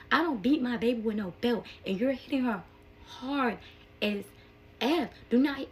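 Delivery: angry scolding. Retold or imitated. Mother arguing with the dad over the belt, angry scolding. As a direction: lay down the law, each last word punched. Retold argument with child's father.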